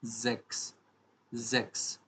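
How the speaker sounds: ज़ेक्स opening on a voiced Z; German sechs. Shown as a demonstration. Teacher showing learners six, ज़ेक्स with voiced Z. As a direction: say ज़ेक्स as zeks. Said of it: "इसको हम बोलते हैं".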